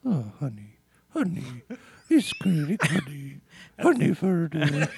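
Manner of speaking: light bear voice, barely changed; lightly voiced cuddly bear; Winnie the Pooh voice. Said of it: "Can you do Winnie the Pooh impression?".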